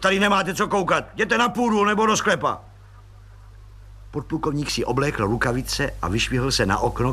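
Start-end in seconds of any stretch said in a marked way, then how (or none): 0.0-2.6 high, forceful shout at the maid; roaring order. Acted. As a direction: drive her out of the room with a bark. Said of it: "zařval plukovník".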